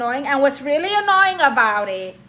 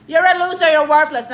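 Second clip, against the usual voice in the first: mock diva insult; 3 semitones higher, 5 dB louder than usual. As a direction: look down on them like a goddess. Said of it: "That's my whole persona on the internet".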